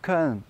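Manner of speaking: cotton with the T turned into a very light D; light flapped T in cotton; soft English T. Shown as a demonstration. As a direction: cotton said fast, barely touching the middle consonant. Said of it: "un espèce de D, mais voilà, très léger".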